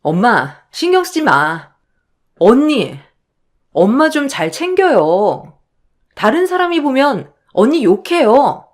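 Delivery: lightly voiced meddling sister-in-law; 얄미운 시누이. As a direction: comfort mother, then reproach the in-law. (언니를 나무라는 얄미운 시누이 말투)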